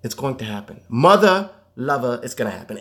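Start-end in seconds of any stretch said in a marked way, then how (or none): 0.9-2.2 emphatic exclamation. Real, not acted.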